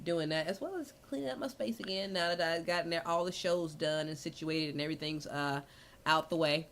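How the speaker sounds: soft, low-volume murmur; very quiet. Real, not acted. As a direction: talk softly as if far from the mic.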